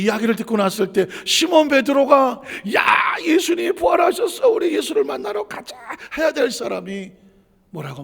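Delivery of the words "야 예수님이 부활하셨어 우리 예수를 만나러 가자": high, loud, eager calling out; rally the others to go see him; excited shout. Pretend. Peter shouting to the disciples that Jesus is risen.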